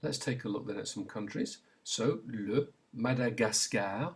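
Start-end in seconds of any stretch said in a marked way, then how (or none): 2.3-4.1 "le Madagascar" slowly in French with hard g; French pronunciation. Shown as a demonstration. Teacher gives learners a country to repeat, French pronunciation. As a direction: model "le Madagascar" slowly, every a open. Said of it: "Say it".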